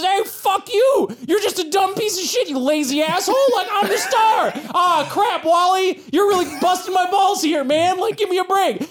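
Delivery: high squawky parrot and comic, laughing through it; bickering comic duo. Acted. GM voicing parrot and comic arguing, high cartoon voices. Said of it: "And he says".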